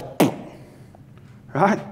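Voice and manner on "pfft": dismissive pfft. Retold or imitated. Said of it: "And God says".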